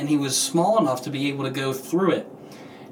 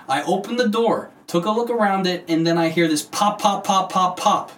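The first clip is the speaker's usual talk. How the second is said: lightly higher put-on voice for a quoted stranger; other person accent; 4 semitones higher than usual. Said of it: "That was my other person accent".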